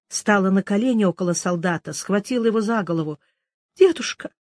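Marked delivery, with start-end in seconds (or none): 3.7-4.3 frightened scream. Acted. Girl crying out to the collapsed soldier, frightened scream. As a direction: scream for the fallen grandfather. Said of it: "закричала она".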